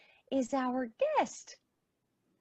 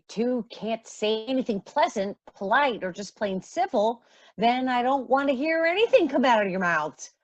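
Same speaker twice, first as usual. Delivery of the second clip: louder, firm motherly scolding; raised voice, no arguing; stern scolding; 3 semitones higher, 6 dB louder than usual. Acted. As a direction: lay down the law to the girls. Mother scolding quarrelling daughters.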